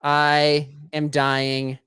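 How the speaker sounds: very slow, drawn-out mock death moan; melodramatic dying. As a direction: stretch "dying" out like a soap opera. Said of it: "and you're gonna say what?".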